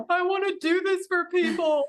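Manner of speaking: high breathless wonder; awed declaration. Retold or imitated. Telling husband her calling, high awed voice. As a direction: blurt out the revelation. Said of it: "I was like".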